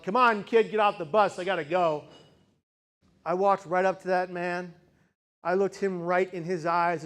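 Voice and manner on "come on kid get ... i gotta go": a mildly louder, impatient call; a bus driver barking at a crying kid to get off; retold yell. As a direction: hurry the kid off like a busy driver. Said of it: "and he yelled".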